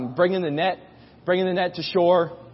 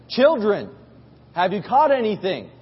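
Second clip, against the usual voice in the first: raised voice, lightly imitating a distant hail; mock calling out; 4 semitones higher, 3 dB louder than usual. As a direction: call out across the water, half-hearted. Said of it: "They're shouting back and forth".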